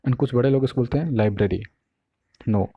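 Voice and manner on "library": लाइब्रेरी as lai-BRE-ri; wrong library pronunciation. Retold or imitated. Teacher imitating older people's mistake, lai-bre-ri. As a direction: say लाइब्रेरी with a full bre in the middle. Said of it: "वो दोनों ही incorrect है".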